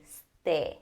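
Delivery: "ste" short e, no stay glide; e as in end. Shown as a demonstration. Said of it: "e in end".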